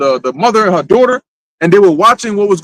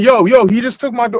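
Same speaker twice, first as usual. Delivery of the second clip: put-on urgent, held-in scream-like cry; 3 semitones higher than usual. Acting out a scene where a man snatches the daughter: acted-out screaming. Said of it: "and I'm screaming".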